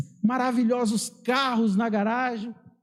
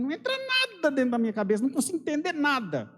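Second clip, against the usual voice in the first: mock exasperation, pitched up and quick; exasperated reader; 5 semitones higher, faster than usual. Baffled Bible reader grumbling to the congregation, mock exasperated.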